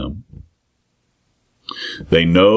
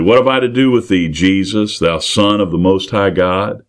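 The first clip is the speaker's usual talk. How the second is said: loud demon's cry; 2 semitones higher than usual. Retold or imitated. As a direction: call it out like the demon crying out. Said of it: "He says very loudly".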